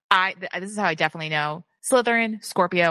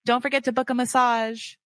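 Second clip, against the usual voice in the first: lightly voiced soothing Taurus, a touch higher; caring Taurus; 4 semitones higher than usual. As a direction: play the gently fussing inner Taurus. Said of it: "the Taurus is like".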